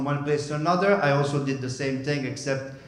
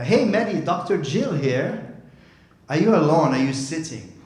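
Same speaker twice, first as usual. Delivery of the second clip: acted phone greeting, higher and louder, easing down; doctor on the phone; 4 semitones higher, 5 dB louder than usual. Doctor phones the patient at night, imitated phone greeting. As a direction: imitate a doctor calling with news. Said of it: "I received a phone call".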